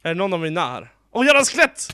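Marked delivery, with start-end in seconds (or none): 1.1-1.9 loud, high exasperated outburst; frustrated curse. Real, not acted. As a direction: swear at the skeleton. Skeleton attacks suddenly. (irriterad svordom)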